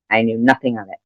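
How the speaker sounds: quiet echo to herself. Real, not acted. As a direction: let it fall away, muttered.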